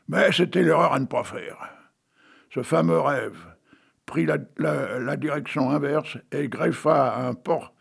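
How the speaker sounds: reading his own tale aloud with flourish; lightly dramatic storyteller reading; story reading. Acted. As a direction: read it like a whimsical fable. Reads the tale to its end.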